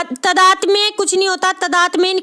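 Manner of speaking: "तदात्म्य" with short first a, ta-daat-mye; wrong form "तदात्म्य", short ta then long daa; mispronounced word. Shown as a demonstration. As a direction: clip the first vowel of "तदात्म्य" to ta.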